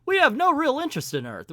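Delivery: high, loud, fast and laughing; breezy alien chuckling denial; laughing dismissal. Acted. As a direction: laugh it off as if it were nothing. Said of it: "He's like".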